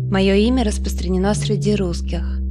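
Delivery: ordinary delivery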